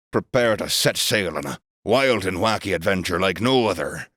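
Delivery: a touch of a pirate captain. Acted. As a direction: ham it up like a pirate. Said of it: "doing the pirate voice for the rest?".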